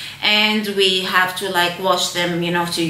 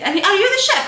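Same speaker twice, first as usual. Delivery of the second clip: demanding passenger; 10 semitones higher, much faster than usual. Retold or imitated. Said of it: "she's like".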